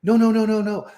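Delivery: high, loud rapid denials; retold protest. Manager insisting to his team he is not mad, loud high denial. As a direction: wave off the idea hard. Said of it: "And I'm like".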